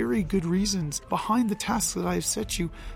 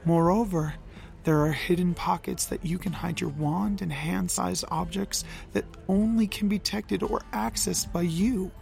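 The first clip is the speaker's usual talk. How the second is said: lower, softened apology. Acted. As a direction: speak low and gentle. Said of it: "Loki's voice was low".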